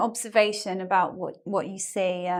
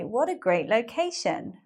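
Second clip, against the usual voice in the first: a light touch of enthusiasm, not overdone; enthusiastic exclamation; 3 semitones higher than usual. Shown as a demonstration. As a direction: sound mildly pleased about the location. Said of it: "you say it with some kind of enthusiasm".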